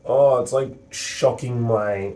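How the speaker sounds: startled gasps at an icy mask; gasping from cold. Real, not acted. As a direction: catch your breath at the cold. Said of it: "it's so cold".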